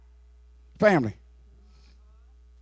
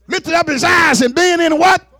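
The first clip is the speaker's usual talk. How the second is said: call for response; 3 semitones higher than usual. Acted. Preacher calling on the congregation to answer, shouted. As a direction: demand the answer from the pews.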